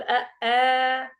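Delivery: أ stretched long as a wrong example; mock the drawn-out أ; teacher showing the error; wrong long vowel. Shown as a demonstration. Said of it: "لا تقل".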